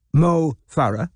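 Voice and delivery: lightly voiced old man, slow and deliberate; repeating the name for her; frail old man.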